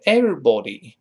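British everybody with a rounded o in body. Shown as a demonstration. Teacher contrasts British everybody. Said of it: "英式发音是everybody".

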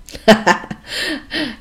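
high burst of laughter; real chuckle at a silly joke; amused laugh. Real, not acted. Mother laughing at her husband's literal translation, amused.

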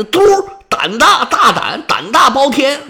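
high, forceful storyteller's outburst; acted angry old king; indignant rebuke. A narrator's reading. King rejects wife's pleading angrily.

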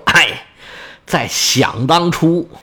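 acted sigh, then slow, drawn-out reminiscing; long sigh. Old prince starts recalling the past, long sighing. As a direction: sigh and begin the old tale slowly. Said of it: "长叹一声说".

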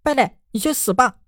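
high, furious curse; through gritted teeth. A narrator's reading. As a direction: hurl the curse with clenched fury. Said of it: "他咬牙道".

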